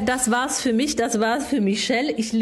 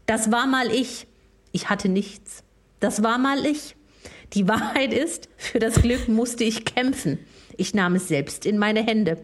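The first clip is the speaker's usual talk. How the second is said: reading lyrics like a poem; solemn mock poetry reading; dramatic reading. Reads song lyrics aloud.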